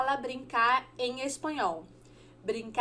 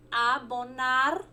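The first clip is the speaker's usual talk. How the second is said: slow; slower than usual. Shown as a demonstration. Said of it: "Abonar em espanhol significa".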